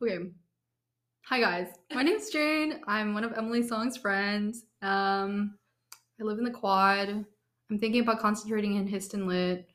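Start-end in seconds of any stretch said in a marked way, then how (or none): 1.3-9.7 talking around a cough drop; mouth full. Real, not acted. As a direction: speak with candy in mouth. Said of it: "I'm currently chewing on a cough drop right now".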